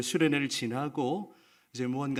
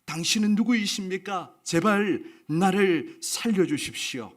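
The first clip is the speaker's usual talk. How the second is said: mild pleading shout; 5 semitones higher, 4 dB louder than usual. Acted. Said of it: "더더욱 소리를 질렀습니다".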